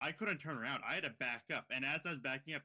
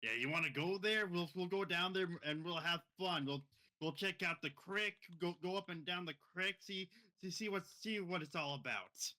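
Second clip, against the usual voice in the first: higher-pitched re-enactment of himself; acting his own part; 6 semitones higher than usual. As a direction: lightly act out your own invitation, pitched up. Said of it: "act your own voice".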